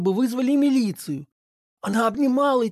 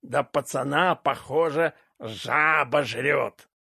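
lower, very slow sneering voice of a crude uncle; uncle's mocking jibe; 6 semitones lower, slower than usual. A narrator's reading. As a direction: drag out the jibe low and slow. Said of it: "громко сказал дядя Федя".

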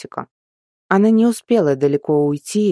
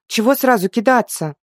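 grumbling; 7 semitones higher than usual. A narrator's reading. Girl grumbles after the nut.

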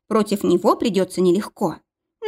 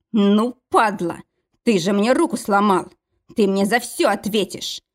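through gritted teeth. Acted. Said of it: "сквозь зубы цедил он".

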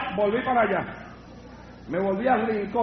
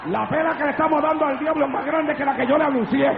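high, forceful preacher's voice; fired-up preaching; 6 semitones higher than usual. Acted. Preacher rousing the congregation with exclamations, fired-up preaching.

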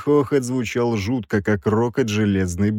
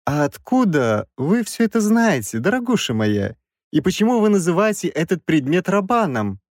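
high, probing questions; suspicious professor; 7 semitones higher than usual. A narrator's reading. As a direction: question him suspiciously in a raised voice. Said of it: "Он крайне подозрительно уставился на меня".

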